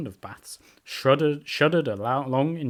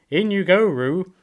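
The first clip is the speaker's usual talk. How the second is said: loud, higher-pitched urgent order; loud call; 8 semitones higher, 9 dB louder, slower than usual. A narrator's reading. Rabbit hurrying Roo in, loud voice. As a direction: call it out loudly and high. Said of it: "said in a loud voice".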